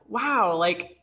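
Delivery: laughing through an incredulous retort; laughing disbelief. Retold or imitated. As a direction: chuckle while saying it, amazed.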